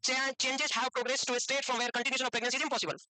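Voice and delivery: reads the definition out slowly, word by word; slow, even reading of the textbook line. Shown as a demonstration. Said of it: "तो उसमें भी word impossible था". (धीरे धीरे परिभाषा पढ़ना)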